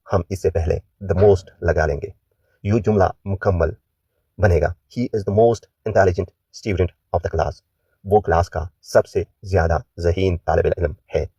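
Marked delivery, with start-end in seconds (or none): 4.9-7.6 slow, careful model reading; teacher reads the answer slowly; slow model sentence. Shown as a demonstration. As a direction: say it slowly for learners to copy.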